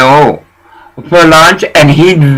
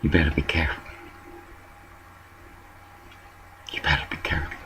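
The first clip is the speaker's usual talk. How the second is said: mock warning; 11 semitones lower, 21 dB quieter, much faster than usual. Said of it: "Did Cash go over there and say".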